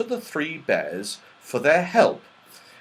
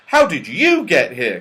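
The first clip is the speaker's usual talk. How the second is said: louder, quicker question thrown back; crying out; 3 semitones higher, 7 dB louder than usual. A narrator's reading. Sisters cry the question back to Joe, surprised. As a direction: toss the question back with stress on "you". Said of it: "cried Beth and Franny".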